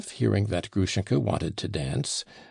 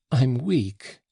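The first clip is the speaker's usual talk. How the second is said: exhausted; 5 semitones higher than usual. Acted. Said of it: "she said in an exhausted voice".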